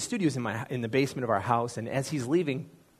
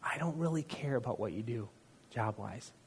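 gentle voice of God. Retold or imitated. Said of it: "I heard him say this in a voice".

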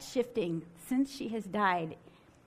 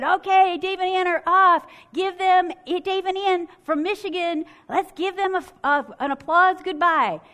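higher, louder emcee calling out the couple; announcer; 6 semitones higher, 7 dB louder than usual. Retold or imitated. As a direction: play the cheesy stage host. Host announcing the couple's elimination.

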